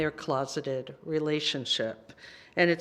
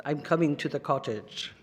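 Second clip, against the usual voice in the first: light Russian accent, lower; 3 semitones lower than usual. Shown as a demonstration. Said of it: "if I say it in a Russian accent".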